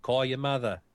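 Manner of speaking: put-on brusque New Jersey accent. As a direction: bark it like a New Jersey mom. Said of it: "in that New Jersey accent".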